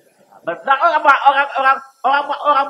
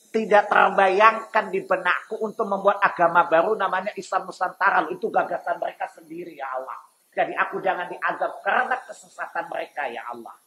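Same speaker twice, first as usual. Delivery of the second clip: Iblis pleading; 4 semitones lower, 5 dB quieter than usual. Acted. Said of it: "Bahkan iblis bilang apa?".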